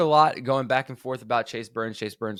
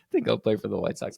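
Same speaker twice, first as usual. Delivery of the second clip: tickled, laughing retelling; amused laughing. Retold or imitated. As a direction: chuckle into the retold punchline. Amused retelling of a draft meme.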